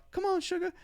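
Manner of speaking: high Southern American auntie impression; sugary American accent, imitated. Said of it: "giving her an American accent".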